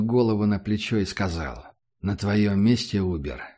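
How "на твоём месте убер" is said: cold otherworldly voice. Acted. Dead Mandela speaks in dream.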